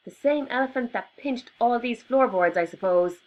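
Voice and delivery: high, loud sarcastic snapping; sarcastic yell. Acted. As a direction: yell it with scorn at Albie. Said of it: "yelled Mary".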